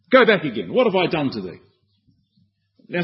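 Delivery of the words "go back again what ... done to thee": harsh words. Retold or imitated. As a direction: read the prophet's words sharply. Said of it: "They're rather harsh words".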